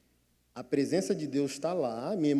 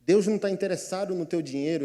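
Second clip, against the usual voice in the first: ordinary delivery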